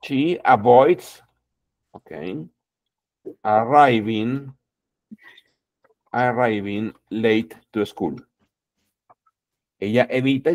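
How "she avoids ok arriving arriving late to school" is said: slow model sentence. Shown as a demonstration. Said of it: "tú puedes decir".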